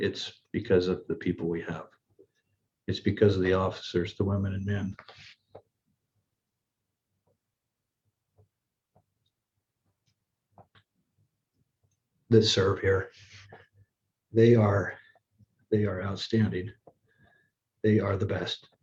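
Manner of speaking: choked-up voice catching with emotion. Praising the officers who serve here, the speaker chokes up. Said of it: "I'm sorry I get a little emotional".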